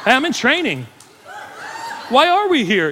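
high, loud panicked trainee; mock panic. Trainee garage repairman faced with an angry customer, mock panic.

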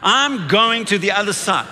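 firm, confident call to repeat; bold declaration. Shown as a demonstration. Preacher asking the church to say it with him, bold declaration. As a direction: lead the room out loud, emphatic. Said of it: "Say it with me".

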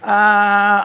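nervous, half-laughing muttering; panicky Peter. Retold or imitated. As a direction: fret and dither, then give up. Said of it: "He's walking around going".

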